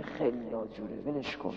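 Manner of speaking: low, hushed parent thinking aloud; quiet inner remark. Acted. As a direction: say it low, letting it go. Forgiving parent's quiet inner decision. (آهسته و با گذشت)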